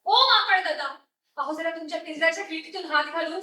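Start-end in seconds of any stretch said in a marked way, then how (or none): 0.1-0.9 louder call across the cages; lion calling the neighbouring monkey for help. Acted.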